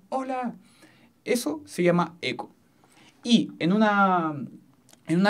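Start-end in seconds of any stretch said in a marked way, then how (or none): 0.1-0.6 same high call but much softer, like a distant echo; echo coming back. Shown as a demonstration. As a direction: let it return faint. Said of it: "escucho de nuevo".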